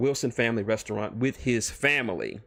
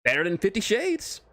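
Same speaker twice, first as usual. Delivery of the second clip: higher teasing jab; smug Deadpool; 9 semitones higher than usual. Acted. Deadpool teasing the author about his fic, smug and high. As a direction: needle him with a grin.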